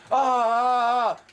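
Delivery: slow, loud, drawn-out mad laugh sounds; mock maniac. Gamer imitating the Joker's madness, slow loud drawn-out ah sounds. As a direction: ham up the Joker's cackle. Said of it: "he's just".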